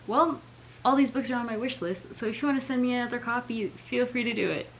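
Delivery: a cheeky fake request; joking. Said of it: "Just kidding".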